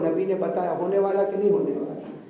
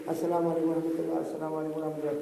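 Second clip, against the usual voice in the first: soft prayer salutation; 3 semitones lower, 8 dB quieter than usual. Acted. Acting out salutation ending prayer.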